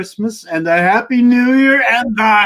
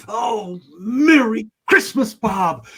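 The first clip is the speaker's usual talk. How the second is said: teary; 3 semitones higher, slower than usual. Acted. Reformed Scrooge greets his clerk tearfully.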